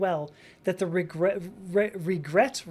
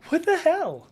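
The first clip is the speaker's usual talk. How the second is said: baffled outburst; 9 semitones higher, 4 dB louder than usual. Real, not acted.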